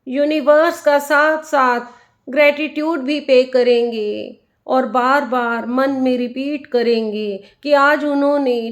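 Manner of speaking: unhurried meditation guide, leaving space after each instruction; guided meditation. Acted. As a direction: lead listeners inward, phrase by phrase, letting the endings stretch.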